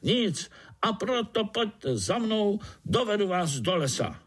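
high, jubilant call to follow; excited little spider. Acted. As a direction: cheer them on toward the forest. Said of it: "křičel na celé kolo".

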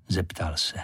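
usual speaking voice

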